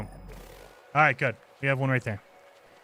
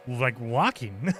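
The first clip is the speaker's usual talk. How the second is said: slow; 5 semitones lower, 4 dB quieter, much slower than usual. Shown as a demonstration. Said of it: "I'm purposely just".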